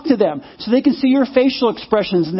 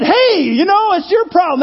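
mock snippy retort; 6 semitones higher than usual. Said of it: "If I'd have said".

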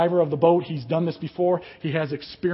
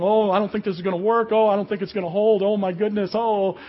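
higher, louder fretting, imitating the rigger; mock worry; 4 semitones higher, 6 dB louder than usual. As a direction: play up the doubt for effect. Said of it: "he's talking this way".

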